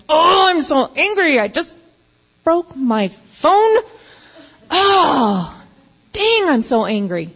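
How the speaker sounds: high, pained cry of frustration; mock frantic anger. After breaking her phone, anguished frustrated cry. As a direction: wail over the broken phone.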